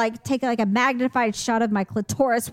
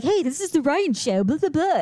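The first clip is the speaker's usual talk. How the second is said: mildly voiced kid hosting his show; a light imitation of a little boy announcing his show; 4 semitones higher than usual. Mother imitating her little son's video show, a light kid host voice. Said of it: "He would always be like".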